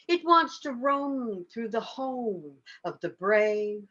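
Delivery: measured poem delivery with long pauses between phrases; incantatory refrain, each phrase left to ring; poetry reading. Acted. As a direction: recite it line by line, drawing out the stressed words. Reads own poem aloud.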